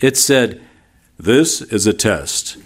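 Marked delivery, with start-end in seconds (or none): 1.2-2.6 lightly imitated test announcer, measured and deliberate; a hint of an official broadcast announcer; emergency broadcast announcement. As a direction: recite it like a routine emergency-system test notice. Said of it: "it went something like this".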